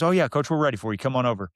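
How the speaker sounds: a hint of country coach, starting high; Coach Vincent. Coach finally invites him over, lightly imitated country voice. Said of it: "good old country boy from Vernon".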